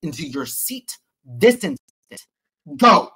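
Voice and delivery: stern command, loud on the final Go; retold church shout. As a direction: order him back to his seat. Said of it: "I shouted it in church".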